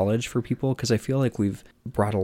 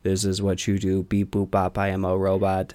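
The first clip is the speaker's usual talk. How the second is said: mock robot voice, stiff and even; lightly voiced robot, half-joking. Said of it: "without being like".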